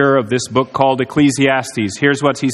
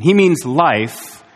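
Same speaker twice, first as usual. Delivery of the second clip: slow emphasis; much slower than usual. Acted. Preacher slows for emphasis.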